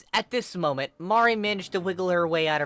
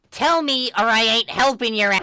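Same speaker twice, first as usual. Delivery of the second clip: angry; 9 semitones higher, 11 dB louder than usual. Acted. Aubrey stubborn demand.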